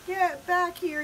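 high, loud command; yelling. A narrator's reading. Pip summoning scattered prairie dogs, yelling. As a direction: call the runaways back sharply. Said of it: "yelled Pip".

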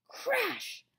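high, loud burst; sudden crash word. A narrator's reading. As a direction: burst out with it like the impact.

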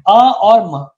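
"अ और म" with each sound said on its own; sounds separated. Shown as a demonstration. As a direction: split "अ और म" into vowel, then m. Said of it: "तो इसमें दो ध्वनियां हैं".

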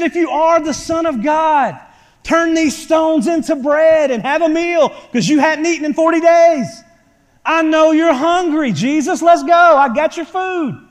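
mock devil coaxing Jesus, loud; tempting devil. Preacher voicing the devil tempting hungry Jesus, coaxing. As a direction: coax like a sly tempter offering food. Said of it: "He said".

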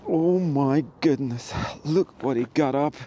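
shivering with cold; shaking. Real, not acted. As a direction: speak while trembling from cold. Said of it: "I'm just shaking here".

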